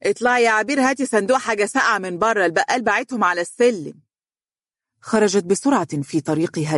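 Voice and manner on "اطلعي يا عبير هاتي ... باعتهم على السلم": mother calls out to her daughter, pitched high; calling out. Acted. Mother calls Abeer from the salon, high calling voice. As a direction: raise the voice to reach the next room. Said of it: "نادت عليها قائلة".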